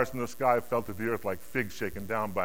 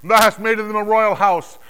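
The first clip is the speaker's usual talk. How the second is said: high, loud declaimed anthem; triumphant, forceful acclamation; exultant hymn of praise; 11 semitones higher, 14 dB louder than usual. Acted. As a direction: proclaim it as a soaring song of worship. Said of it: "they were singing a new song".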